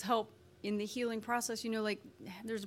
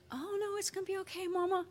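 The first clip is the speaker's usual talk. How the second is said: put-on higher, quick little child reassuring mama; little girl voice; 9 semitones higher, faster than usual. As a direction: voice the toddler brushing it off. Little daughter voiced in story.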